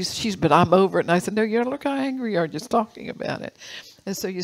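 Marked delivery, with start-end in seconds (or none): 0.4-1.0 loud, insistent retort; louder mock-angry denial; angry protest. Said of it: "the angrier she got". 1.3-3.6 higher-pitched, challenging comeback; animated mock-scolding reply; retold retort. Retold retort to angry woman.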